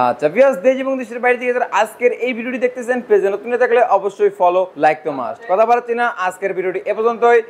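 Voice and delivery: upbeat video host sign-off; host outro. Acted. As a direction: wrap up like a channel host. Host's outro to viewers. (উচ্ছ্বসিত উপস্থাপকের বিদায়)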